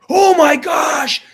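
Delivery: imitating her slow, high, astonished "oh my gosh"; retold amazed gasp. Girl realizes her arm is healed.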